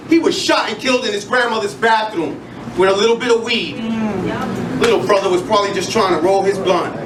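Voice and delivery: rhythmic spoken word performance; spoken word delivery with building intensity; slam poetry recital. Acted. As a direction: perform it like a slam poem on stage.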